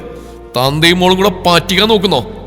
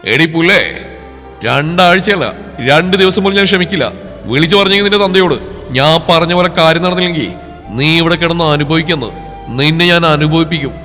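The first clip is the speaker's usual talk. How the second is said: threatening. Acted. Husband threatening his bride, menacing. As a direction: threaten her hard. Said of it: "ഭീഷണിപ്പെടുത്തിയപ്പോൾ".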